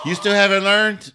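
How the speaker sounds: high, loud, drawn-out incredulous question; imitated scolding heckler. Front-row lady catches comic repeating the joke, mock scolding. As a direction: scold him in mock disbelief. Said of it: "she's right there in the front row again".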